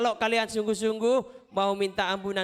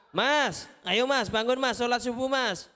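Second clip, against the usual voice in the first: put-on mother waking child; 4 semitones higher than usual. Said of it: "Kalian dibangunkan".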